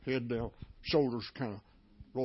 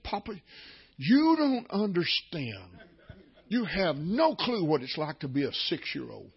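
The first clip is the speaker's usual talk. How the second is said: put-on child pleading; 3 semitones higher, 4 dB louder than usual. Granddaughter pleads her case.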